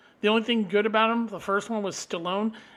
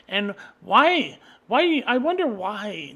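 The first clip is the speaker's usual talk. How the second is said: angry shout; 2 semitones higher, 7 dB louder, slower than usual. Real, not acted. Raging at the Creed sequel, rising angry shout. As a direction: demand it, rising to a yell.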